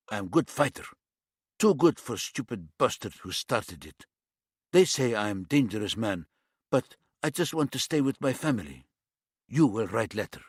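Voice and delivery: put-on light East European accent, blunt demand; a hint of an East European tough. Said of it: "His accent was some sort of East European".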